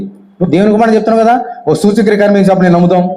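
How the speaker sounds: fast, pushy demand. Retold or imitated. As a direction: challenge him quickly, mildly mocking. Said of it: "చాలా మంది demand చేశారు". (వేగంగా demand చేస్తూ)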